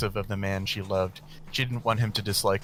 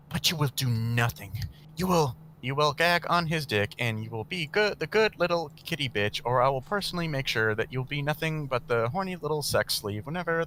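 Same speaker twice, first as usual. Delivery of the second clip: higher, cruel mistress voice; menacing woman; 6 semitones higher than usual. Acted. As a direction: threaten her like a cruel mistress. Camilla threatens Blake.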